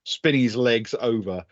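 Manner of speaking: measured, deliberate storytelling with pauses; game master narration. A narrator's reading. Game master describing Stefan's leap, deliberate scene-setting narration. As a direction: draw out the action phrase by phrase.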